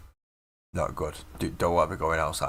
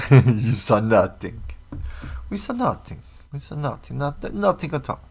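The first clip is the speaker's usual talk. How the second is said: put-on Scouse accent; 6 semitones higher, 5 dB louder than usual. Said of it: "Mancunian doing a Scouse accent".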